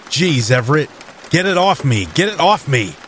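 high frantic cry, pitch jumping up; panicked yelling. A narrator's reading. Hank yelling as the creature lands on his chest, panicked and high. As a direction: shove the panic up into a high yelp.

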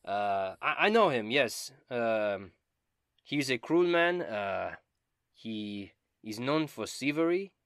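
high, loud and theatrical; Dobin, eager bard. Acted. Dobin bragging about dragon slaying, high and loud. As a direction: ham up the vainglorious bard.

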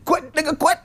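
very high, squeaky mimicry; mock urging. Friends and family urging him to quit, high squeal. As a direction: urge it in short high squeaks.

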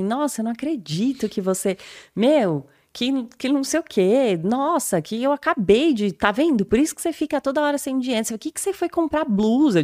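bronca imitada, mais aguda e rápida no fim; imitando bronca. Retold or imitated. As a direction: imite o namorado bravo reclamando. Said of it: "ele ficou muito bravo". (namorado bravo dando bronca, voz mais aguda)

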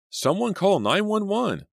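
high, loud urgent call for help. Acted. Kid cries out to everyone for help, high and loud. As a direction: cry out for an ambulance.

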